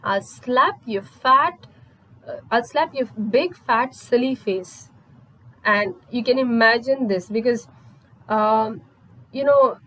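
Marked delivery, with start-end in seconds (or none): 0.0-4.9 slow, measured mock threat; understated savage warning, heavily spaced words; retold savage threat. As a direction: imitate an angry wife, drawing out the threat. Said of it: "gets up and very savagely".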